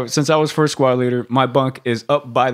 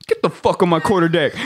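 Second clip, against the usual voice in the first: drill instructor; 5 semitones higher than usual. Retold or imitated. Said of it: "And he was like".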